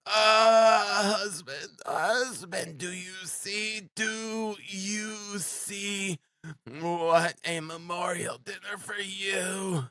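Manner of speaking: desperate, high, stretched-out appeal; despairing wail. A narrator's reading. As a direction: implore everyone in a wailing woman's voice. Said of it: "The wail of the poor".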